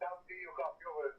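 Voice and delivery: ordinary delivery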